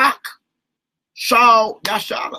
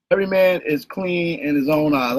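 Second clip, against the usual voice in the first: a lower put-on voice, lightly done as a Googleite reading the verse; mock Googleite voice; 7 semitones lower than usual. Teacher mimicking a Googleite quoting scripture, lower put-on voice. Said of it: "I'm being a Googleite".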